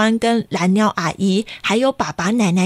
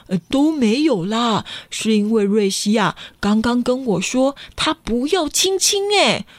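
worried father. Acted. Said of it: "爸爸很担心地说".

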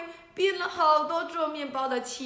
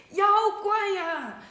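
loud, high, slow scream of fright; 10 semitones higher, 8 dB louder than usual. Acted. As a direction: shriek at the monster. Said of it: "少空开始喊了".

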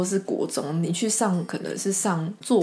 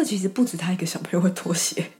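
unvoiced whispered thought; hushed private aside; faster than usual. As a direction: whisper it to yourself.

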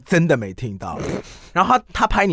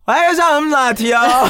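louder, higher order, a bit too loud; ordering too loudly; 8 semitones higher, 4 dB louder than usual. Retold or imitated. Ordering a latte at Starbucks with earphones on, too loud. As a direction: call it out like you can't hear yourself. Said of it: "发声超大声".

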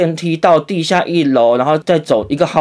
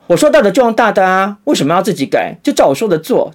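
put-on bossy old doctor; 5 semitones higher than usual. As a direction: snap like a doctor who won't be questioned. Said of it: "老医生很有派头".

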